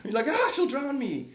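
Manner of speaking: high, loud, laughing panic; mock terror while laughing. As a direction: giggle through the fear. Voicing scared guys, laughing.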